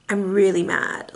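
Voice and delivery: low, understated, diplomatic anger; calm anger. Shown as a demonstration. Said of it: "I'm very calm when I say things".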